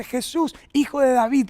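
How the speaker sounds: mild mock cry. Preacher voicing the blind man calling to Jesus, mild mock cry. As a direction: call out in a restrained imitation of yelling. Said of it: "Estaba gritando un montón y dice".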